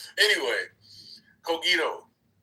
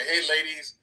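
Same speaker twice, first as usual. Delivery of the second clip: calming the ladies down; 2 semitones higher, 4 dB louder, slower than usual. Retold or imitated. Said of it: "we need you to raise your fucking voice and say".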